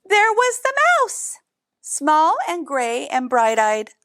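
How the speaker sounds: high and slow, drawing out the surprise; slow, high storyteller reveal; suspenseful reveal. A narrator's reading. Repeated reveal of mouse.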